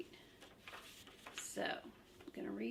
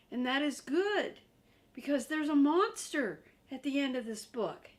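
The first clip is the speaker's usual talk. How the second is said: high, louder urgent puppet voice; Grover pleading; 4 semitones higher, 7 dB louder than usual. Acted. Grover begs the reader to stop turning, high and urgent. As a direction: beg them not to turn the page.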